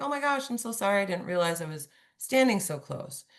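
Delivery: high-pitched oh-my-gosh, easing down; apologetic surprise. Acted. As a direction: act out a mildly embarrassed apology. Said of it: "they're gonna laugh and be like".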